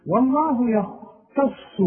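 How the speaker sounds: slow recited والله يختص; slow Quranic recitation. Shown as a demonstration. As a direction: chant it slowly with care. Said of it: "أهي دي عايزة فن".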